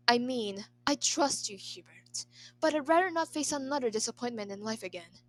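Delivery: loud, earnest plea from the emperor; fervent. Acted. Emperor pleading with his retainer, loud and fervent. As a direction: give it all the fervor you have. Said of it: "repeated the phrase with much fervor".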